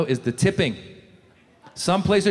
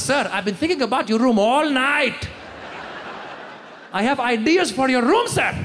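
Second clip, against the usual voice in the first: excited cleaner; 6 semitones higher than usual. Retold or imitated. Cleaner voiced, higher.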